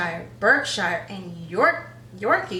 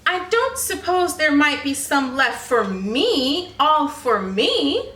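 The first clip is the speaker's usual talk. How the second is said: greedy wheedle; 4 semitones higher, 5 dB louder than usual. Acted. Greedy pig angling for snacks.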